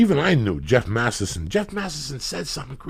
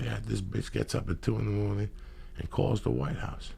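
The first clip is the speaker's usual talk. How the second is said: usual speaking voice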